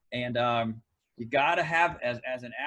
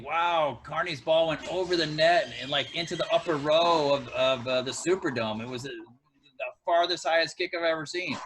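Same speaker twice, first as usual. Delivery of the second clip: louder, hammed-up raving about a kick; mock excitement; 3 semitones higher, 7 dB louder than usual. The speaker on a Zoom call raving, mock excited. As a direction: play an imagined host gushing over a boring field goal. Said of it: "a Zoom call saying".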